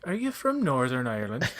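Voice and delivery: light Irish lilt, rising question; hint of an Irish accent, curious; Irish teacher. Irish teacher asking a student's origins, lightly Irish. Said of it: "she was Irish. She's like".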